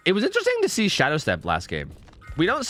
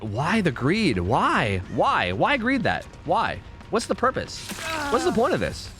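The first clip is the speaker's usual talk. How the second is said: higher, incredulous questions at the screen; baffled disbelief at a player's choice; exasperated; 5 semitones higher, slower than usual. Real, not acted. Streamer reacting to a greedy survivor, exasperated.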